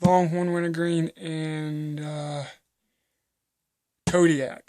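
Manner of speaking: talking with a dip in the lip; mouth full of dip. Real, not acted. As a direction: lip packed with chewing tobacco. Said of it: "Sorry, I just had a dip in".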